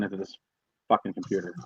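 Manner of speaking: thin voice no bass. Real, not acted. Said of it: "You sound like you're in a tin can".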